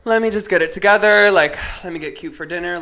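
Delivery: high, loud imitation of a friend rallying; pulling herself together. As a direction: imitate a friend bouncing back from tears. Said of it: "after she was just crying in my arms".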